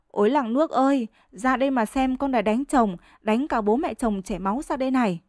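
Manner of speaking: gào cao giọng kêu cứu cả xóm; kêu làng thảm thiết, giọng cao hơn. Acted. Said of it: "ôm đầu kêu làng". (Trức bị vợ ném chảy máu đầu, kêu làng ầm ĩ)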